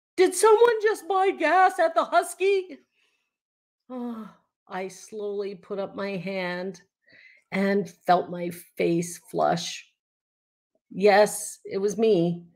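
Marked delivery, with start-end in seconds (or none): 0.2-2.8 very high, shrill, very loud yell. Speaker recalls a woman who barged in: retelling a very loud yell. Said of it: "yelled in a very loud voice".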